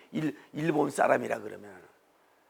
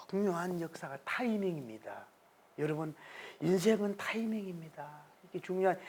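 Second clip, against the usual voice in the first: hushed emphasis; 10 dB quieter than usual. Real, not acted. Hushed climax.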